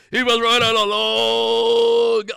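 big, slow, loud pirate belting. Shown as a demonstration. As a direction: sing it like a pirate. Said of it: "That was my pirate voice".

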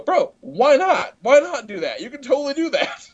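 breezy encouragement. Retold or imitated. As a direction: egg him on, laid-back and grinning. Lee encourages the dad in retelling.

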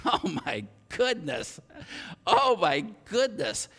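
slow, drawn-out disbelief; hammed-up stunned reaction; mock astonishment. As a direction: stretch it out, marvelling. Amazed reaction to snore detection.

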